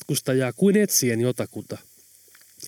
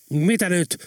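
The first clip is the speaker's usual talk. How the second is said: agitated; 4 semitones higher than usual. Acted. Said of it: "Sergei sanoi kiihtyneenä".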